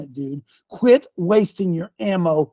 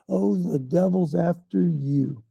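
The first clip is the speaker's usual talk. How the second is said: mock pity; 2 semitones lower, slower than usual. Mocks church pitying its victims.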